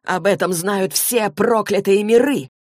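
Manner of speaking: slow, emphatic outcry; crying out. Acted. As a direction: cry it out, stretching the words. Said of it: "выкрикнул пленник". (отчаянно выкрикнуть)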